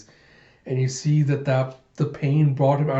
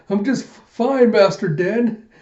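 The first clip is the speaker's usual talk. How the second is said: put-on high, slow, louder girl's reply; Koyomi; 8 semitones higher, 5 dB louder, slower than usual. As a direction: answer the master in a raised, drawn-out voice. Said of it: "And Koyomi's like".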